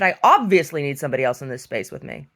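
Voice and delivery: mock-earnest facetious retort, leaning on OBVIOUSLY; retold sarcastic comeback. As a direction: say it with heavy sarcasm. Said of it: "I was being facetious with her".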